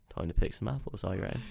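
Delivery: lightly voiced West Country apple-picker; unhurried West Country farmer musing in the orchard; West Country accent. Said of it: "I'm from the West Country".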